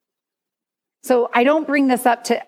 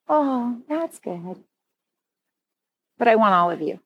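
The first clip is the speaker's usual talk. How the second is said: loving. Pretend. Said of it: "I just felt him just lovingly go".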